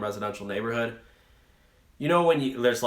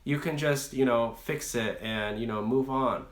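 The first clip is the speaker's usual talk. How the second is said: gentle coddling; 2 semitones higher than usual. Retold or imitated. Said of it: "you like people saying".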